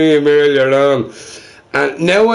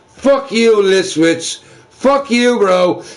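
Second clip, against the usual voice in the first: mock cursing out; 7 semitones higher, slower than usual. Streamer jokingly yelling at his friend Listwitz. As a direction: jokingly shout him down.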